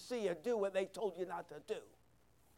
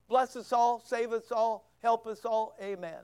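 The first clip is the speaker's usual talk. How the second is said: mock quick prayer; 4 dB louder than usual. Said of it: "Think it was a real short prayer?".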